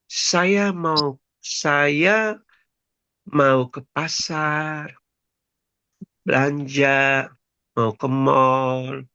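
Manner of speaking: slow, low, gentle Javanese speech; mock-gentle Central Javanese small talk, very slow; soft Javanese manner. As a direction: draw it out softly like a polite Jogja local. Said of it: "Halus kan?".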